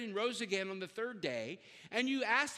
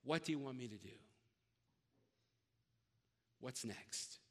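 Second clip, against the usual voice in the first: hushed, simple surrender, much softer; very simply; 9 semitones lower, 10 dB quieter than usual. Retold or imitated. Saul humbly asking the Lord, quiet and simple. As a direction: let it fall to a humble near-hush. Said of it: "very simply".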